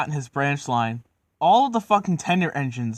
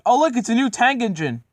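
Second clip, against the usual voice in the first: high, louder excited exclamation; excited kid; 9 semitones higher, 5 dB louder than usual. Acted. Kid pointing out a new tank engine, excited high voice. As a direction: pipe up like a kid spotting something new.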